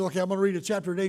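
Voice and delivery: rattled off fast, just getting it done; mock a reader rushing through a checklist; hurried dutiful reader. Pastor mocks a hurried Bible reader, fast and offhand. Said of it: "especially if you have that attitude".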